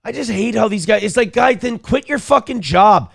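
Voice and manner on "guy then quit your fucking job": imagined rant. Retold or imitated. Ranting at lazy congressmen.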